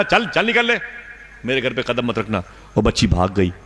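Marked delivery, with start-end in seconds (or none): 0.0-2.4 angry shout. Retold or imitated. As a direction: chase her off the doorstep. Father chases girl away. (बच्ची को भगाता पिता, ऊँची चीख़ती डाँट)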